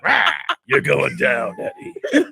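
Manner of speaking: put-on lightly done gravelly old man; Nick Nolte impression. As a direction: growl it like a crusty old man. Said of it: "Nick Nolte impression".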